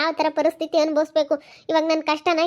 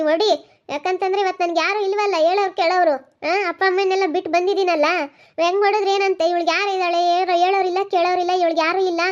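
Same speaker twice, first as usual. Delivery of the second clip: defiant angry outburst; 3 dB louder than usual. Acted. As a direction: throw it at him: go on, hit me. Wife dares husband to hit. (ಕೋಪದ ಸವಾಲಿನ ಧ್ವನಿ)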